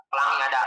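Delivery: "Pelangi ada" joined without a pause; run-together phrase. Shown as a demonstration. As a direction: say "Pelangi ada" as one unbroken unit. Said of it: "Kita kombinasiin dengan intonasi".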